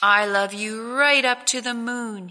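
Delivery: little hare giving his biggest answer; sleepy little hare. Acted. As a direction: reach for the moon like a small sleepy child. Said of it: "he said".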